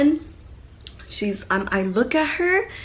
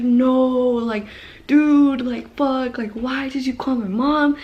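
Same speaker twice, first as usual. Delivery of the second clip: mock outrage at the friend who called mom; retold yell at friend; 3 semitones higher than usual.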